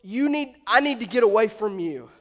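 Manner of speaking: loud, awestruck outcry; emphatic awe, as if needing to back away; sense of awe. Acted. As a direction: act out being overwhelmed by holiness. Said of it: "he gets this sense of awe".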